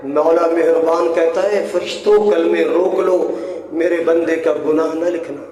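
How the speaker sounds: merciful divine command. Acted. Voices merciful God restraining angels.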